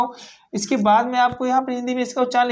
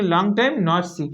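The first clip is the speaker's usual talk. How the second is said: slow model sentence; 3 semitones lower, much slower than usual. Shown as a demonstration. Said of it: "देखिए ध्यान से".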